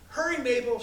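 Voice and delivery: put-on high, loud girl bursting with excitement; excited. A narrator's reading. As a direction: call out eagerly, can't stand still. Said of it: "hopping from one foot to the other with excitement".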